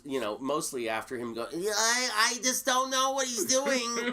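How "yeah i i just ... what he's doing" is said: high, loud mocking outburst; hammed-up yell, higher and louder. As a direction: ham up the angry star yelling. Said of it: "he's yelling at me".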